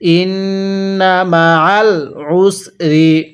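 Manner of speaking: stretched syllables, measured Arabic reading; slow recitation. Shown as a demonstration. Teacher models the word slowly for learners to copy. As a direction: draw out ওয়া র ফা না evenly. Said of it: "কিভাবে শিখব?".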